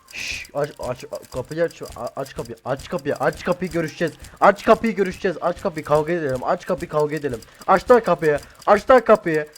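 from urging to a full mock shout at the door; mock door fight. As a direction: build a pretend fight until yelling. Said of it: "Yok, şaka yaptım ya".

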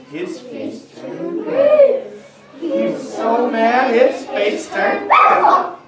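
high, slow, laughing build; milk the joke while laughing; laughing storyteller build; laughing through it. A narrator's reading.

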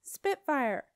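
loud, high call to a dragon; yelled. A narrator's reading. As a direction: yell the name as a command. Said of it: "yelled his navigator".

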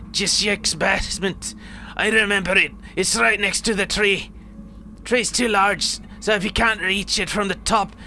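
insistent old man, lightly voiced in a put-on accent; acted old man, pressing his instructions; old man in the story. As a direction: urge them on as a worked-up old villager.

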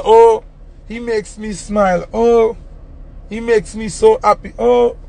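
mock gushing girlfriend. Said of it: "She said".

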